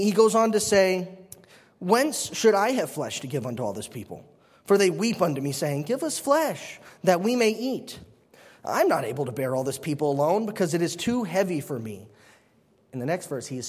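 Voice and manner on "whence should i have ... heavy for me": solemn King James reading; formal Bible reading voice; scripture reading. Acted. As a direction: read the verse with weight. Reads scripture aloud.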